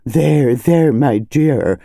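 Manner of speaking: slow, drawn-out consoling; lightly voiced cook's there-there; soothing with relish. A narrator's reading. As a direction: savour the comforting, stretching the words. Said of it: "with some relish".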